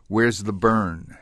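slow, level question with falling end; drawn-out, evenly pitched question; quoted nurse's question. Retold or imitated. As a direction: ask it slowly and firmly, as a quoted nurse. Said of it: "And she said".

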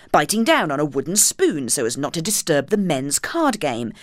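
grand, theatrical reading voice; posh reading voice. Shown as a demonstration. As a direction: read it out in a posh voice. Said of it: "I'll do it in my posh reading voice".

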